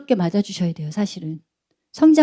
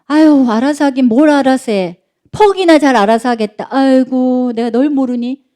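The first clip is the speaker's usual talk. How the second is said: put-on sarcastic scoff, slightly raised, sighing at the kid; scornful parent; 3 semitones higher than usual. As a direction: belittle the kid as a doubting parent. Acted parent scoffing at teen. (비꼬는 부모 말투)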